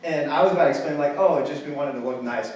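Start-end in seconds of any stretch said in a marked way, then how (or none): 1.2-2.5 lightly put-on customer service voice; a hint of polite customer-service patter. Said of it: "customer service voice".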